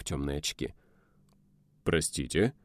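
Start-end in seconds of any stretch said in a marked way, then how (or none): 1.8-2.5 drawn out. A narrator's reading. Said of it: "затянул он".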